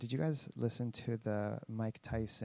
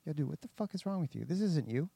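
raised, louder mock rebuke from a blunt ex-trainer; imitated trainer scolding; 4 semitones higher, 3 dB louder than usual. Ex-trainer calling out Tyson for getting out of shape, in a raised mock rebuke. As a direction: bark it at him like a fed-up old trainer. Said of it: "his ex-trainer was like".

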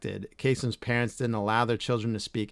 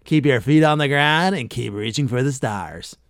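trademark sign-off; 5 dB louder than usual. Retold or imitated. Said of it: "sign off with his trademark".

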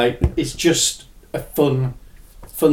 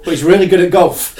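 laughing through it, louder and higher; 7 semitones higher, 11 dB louder than usual. Real, not acted. Describing his silly golf character, laughing. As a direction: crack up while boasting.

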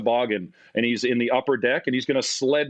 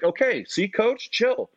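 higher, swaggering brush-off; cocky reassurance; 11 semitones higher, slower than usual. Retold or imitated. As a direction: play it cool to the angry coach. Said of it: "And I'm like".

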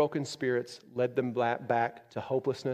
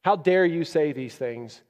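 stern rebuke; 5 dB louder, slower than usual. Acted. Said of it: "God is not looking at Moses saying".

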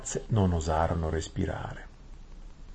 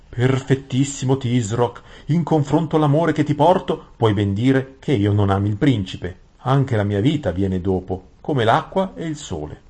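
higher, emphatic fawning vizier; Gran Visir ossequioso; 6 semitones higher, 7 dB louder than usual. Acted. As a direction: protest devotion in a raised courtly voice. (visir adulatore, voce più acuta ed enfatica)

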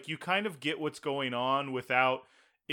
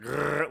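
throaty growl. Shown as a demonstration. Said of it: "like, in the back of my throat".

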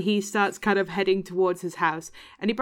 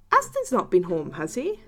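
enquiring Scottish villager; Scottish accent; 5 dB louder than usual. Acted. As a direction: ask a neighbour in a Scottish accent. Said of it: "when I start doing a Scottish accent".

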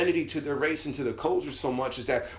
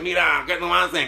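Puerto Rican imitation. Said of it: "Now, around Puerto Rican people".

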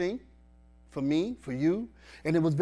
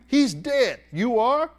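indignant disbelief; 8 semitones higher, 7 dB louder, much slower than usual. Acted. Voicing Martha's indignant reply.

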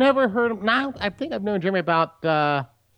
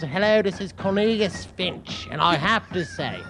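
Cornelius Finch. Shown as a demonstration. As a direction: do a self-satisfied fake British accent. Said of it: "British accent".

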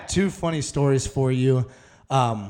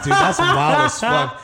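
mock amazed; 13 semitones higher, 5 dB louder, slower than usual. His own reaction to story.

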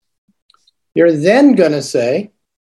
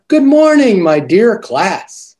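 bright teacher greeting; 3 semitones higher, slower than usual. Shown as a demonstration. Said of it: "One more time".

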